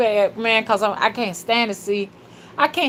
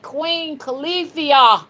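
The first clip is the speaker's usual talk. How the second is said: shouting; 8 semitones higher, slower than usual. Shown as a demonstration. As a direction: shout the name out slow. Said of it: "Say it".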